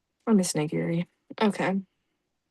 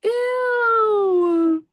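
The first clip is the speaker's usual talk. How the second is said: disgusted shout; 12 semitones higher than usual. Real, not acted. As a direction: shriek it in disgust. Disgusted cry.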